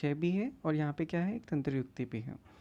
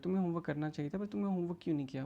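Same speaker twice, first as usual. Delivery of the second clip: soft, rapid mock reproach; taunting teacher; 5 dB quieter, much faster than usual. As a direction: reproach the student quickly, under the voice. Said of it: "वो एक ताने मारते हुए उससे सवाल पूछता है". (धीमा, तेज़ ताना)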